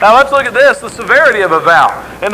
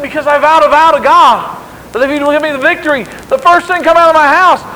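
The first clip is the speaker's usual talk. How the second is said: crying out; 5 semitones higher, 4 dB louder than usual. Acted. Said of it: "he cries out".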